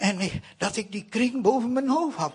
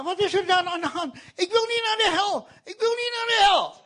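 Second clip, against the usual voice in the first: terrified pleading; 11 semitones higher than usual. Retold or imitated. Feverish boy fears hell.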